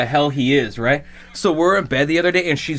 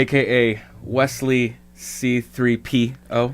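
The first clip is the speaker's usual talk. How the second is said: announcer voice; 2 semitones lower, much slower than usual. Acted. Dramatic nickname announcement.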